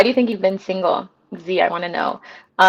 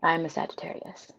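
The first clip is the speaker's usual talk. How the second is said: weak, soft voice after hard laughter; laughed out; 4 semitones lower, 13 dB quieter than usual. Real, not acted. Streamer explaining her laughing fit, spent from laughter. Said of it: "That's why I'm laughing so hard".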